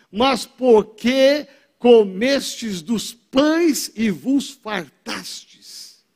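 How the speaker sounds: slow, weighty Bible reading; solemn scripture reading. Acted. Preacher reads Jesus' reply to the crowd slowly. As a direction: read Jesus' words slowly, with gravity.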